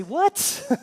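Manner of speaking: high, loud, squeaky mock outrage; big hammed-up indignant what; mock shocked mother. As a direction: shriek it like an offended mom. Mary's shocked reaction to Jesus.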